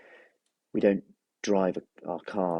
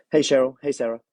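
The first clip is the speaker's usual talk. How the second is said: cheerful greeting; 7 semitones higher, 7 dB louder than usual. Real, not acted. Greeting live viewer joining.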